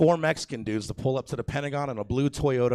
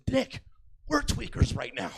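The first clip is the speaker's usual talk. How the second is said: very high, strained retort; high-pitched cry through laughter; mock exasperated outburst; 11 semitones higher than usual. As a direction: imitate a friend squeaking in disbelief. Retold friend's exasperated reply.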